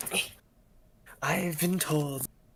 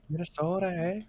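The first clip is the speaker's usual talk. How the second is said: put-on higher-pitched teasing Minnesota accent; mock Minnesota accent; 5 semitones higher, 4 dB louder, faster than usual. Player teases the Minnesotan speaker, mock Minnesota accent.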